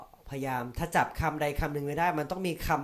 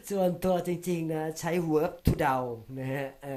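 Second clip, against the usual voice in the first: laughing aside; 5 semitones higher, 5 dB louder, slower than usual. Real, not acted. Joking about guessing answers.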